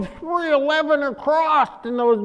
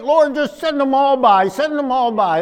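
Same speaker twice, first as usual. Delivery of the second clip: mock prayer; 4 semitones higher, 3 dB louder than usual. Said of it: "I started praying".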